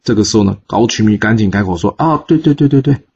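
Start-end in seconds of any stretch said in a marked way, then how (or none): 2.0-3.0 hasty agreement. Acted. Minister hastily changes his story.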